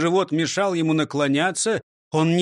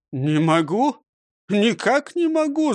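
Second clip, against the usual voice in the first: protesting; 6 semitones higher than usual. Acted. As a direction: protest firmly. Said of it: "запротестовал директор". (протестуя)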